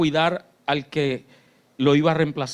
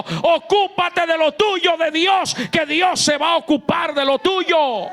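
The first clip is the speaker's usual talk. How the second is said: much higher, slow, shouted at full force; shouted preaching; 12 semitones higher, 7 dB louder, slower than usual. Shown as a demonstration. Pastor driving home his father's phrase, shouting. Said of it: "quiero marcarte hoy con una frase".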